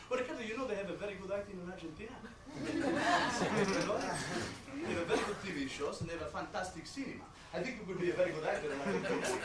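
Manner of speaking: a hint of an earnest accented dad; lightly voiced Argentinian father. Father selling his son on acting in Argentina, persuasive. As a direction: coax him like a proud father.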